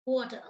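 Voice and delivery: "Water" ending without an R, as "watah"; dropped R. Shown as a demonstration. Teacher repeating the New York example, "Water" without R. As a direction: say "Water" with the final R thrown away. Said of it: "they drop the sound of R".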